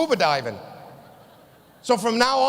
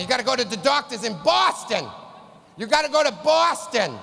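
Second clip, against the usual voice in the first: insistent mother. Retold or imitated. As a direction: push it like a pushy mother. Mother nagging son, retold.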